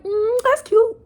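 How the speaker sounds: high, dismissive mock voice; a hint of a rapper brushing it off. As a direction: imitate an unimpressed interviewer. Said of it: "Diddy was like".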